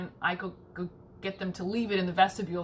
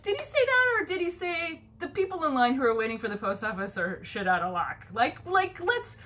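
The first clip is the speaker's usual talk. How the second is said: mock incredulous; 6 semitones higher than usual. Retold challenge to security guard.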